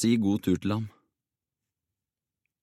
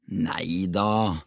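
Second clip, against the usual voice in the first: encouraging. A narrator's reading. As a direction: gently wave the worry away. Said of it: "sa P oppmuntrende". (rolig oppmuntrende)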